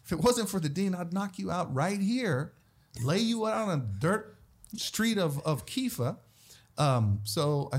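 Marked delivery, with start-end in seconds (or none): 0.0-6.2 mock tough-guy threat. His angry thought at taunter.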